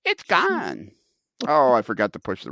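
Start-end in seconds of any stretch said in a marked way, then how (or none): 0.1-0.9 home run call. Retold or imitated. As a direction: call the ball over the wall.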